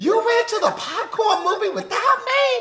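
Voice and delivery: play-acted breathless outraged cry, very high, gasping yell. Parent retells their daughter at daycare spotting a popcorn kernel: retelling a gasping yell. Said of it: "gasped like she was dying and yelled".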